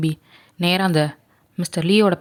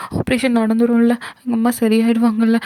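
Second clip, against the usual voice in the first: put-on 1 hopeful young girl; 4 semitones higher than usual. Girl hopeful after crying.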